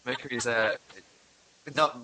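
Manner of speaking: stumbling over loose dentures. Real, not acted. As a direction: talk around slipping false teeth. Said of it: "I'll put my teeth back in straight".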